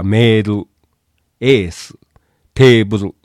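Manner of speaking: メール, エース, テーブル with a long "ee" instead of "ei"; katakana-style メール, エース, テーブル; Japanese long vowel. Shown as a demonstration. Teacher listing impossible English sounds, long Japanese vowels. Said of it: "英語ではこれはありえないんです".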